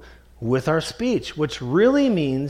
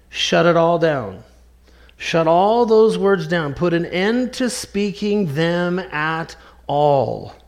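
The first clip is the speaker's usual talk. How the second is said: firm command; slower than usual. Acted. Preacher voicing God's command.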